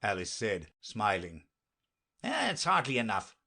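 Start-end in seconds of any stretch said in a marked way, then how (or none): 2.2-3.4 higher, mildly worried knight; a touch of fretting; anxious. Acted. Knight worries about Alice's hair, mildly anxious. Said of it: "he said anxiously".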